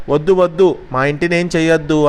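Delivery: high pleading cry, fading on the second half; shouting plea. Acted. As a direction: pigs begging the wolf to spare the house. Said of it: "అని అరిచాయి పందులు". (పైస్థాయిలో వేడుకోలు అరుపు)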